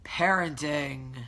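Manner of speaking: slow, stretched-out PARENTING; drawn-out word. Real, not acted. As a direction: draw PARENTING right out at full voice. Wry repeated word after scolding child.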